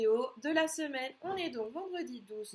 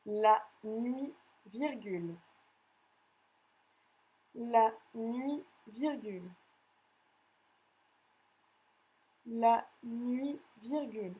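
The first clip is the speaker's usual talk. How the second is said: dictating. Acted. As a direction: read each chunk out for pupils to write. Teacher reads a dictation.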